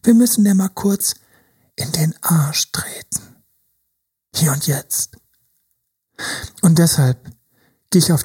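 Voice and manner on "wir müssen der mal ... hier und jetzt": conspiratorial whisper. Acted. Coach drops to whisper.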